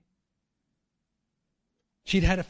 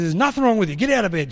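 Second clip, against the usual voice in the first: louder, no-nonsense command; firm insistence; 3 semitones higher, 5 dB louder, faster than usual. Retold or imitated. Wife telling sick friend to get out of bed, firm and louder. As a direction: insist she gets up.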